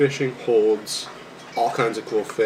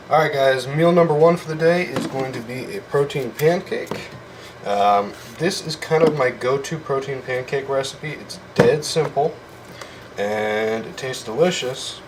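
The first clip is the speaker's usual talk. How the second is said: excited; 4 semitones higher than usual. Real, not acted. Announces meal to camera.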